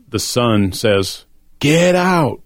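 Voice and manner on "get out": retold yell. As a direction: imitate the son yelling at the nurse, half-hearted. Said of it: "He yells at her".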